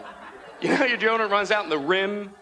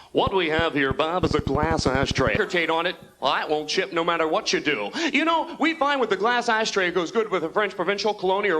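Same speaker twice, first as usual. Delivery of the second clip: slick shopping-channel pitchman. Acted. Salesman selling an ashtray on TV, hammed-up pitch. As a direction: sell it hard and stretch the key phrases.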